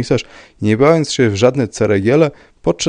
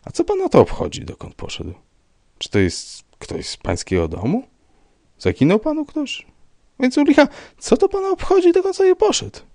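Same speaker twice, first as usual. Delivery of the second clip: irritated questioning. A narrator's reading. Commissioner questions Rybka's interest irritably.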